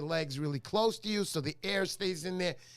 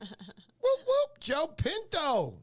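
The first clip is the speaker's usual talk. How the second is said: high, drawn-out whooping shout; hollered greeting; 13 semitones higher, 4 dB louder, much slower than usual. Real, not acted. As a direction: holler the name like a hype man, stretching it out.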